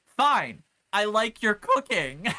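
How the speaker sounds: high, loud, exasperated concession; grudging give-in. Retold or imitated. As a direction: blurt it out to end the fight. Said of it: "Winslow's just like".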